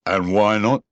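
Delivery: curt cold reply; coldly. A narrator's reading. Eeyore answering Roo, cold. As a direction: answer icily. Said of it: "said Eeyore coldly".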